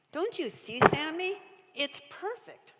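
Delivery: high, bursting with eagerness; can't hold in the excitement; excited. A narrator's reading. Rachel to her brother, bursting with excitement. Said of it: "could no longer contain her excitement".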